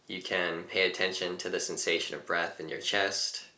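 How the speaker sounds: calm teacher leading a breathing exercise; guided meditation. Acted. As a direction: talk them gently into the breath.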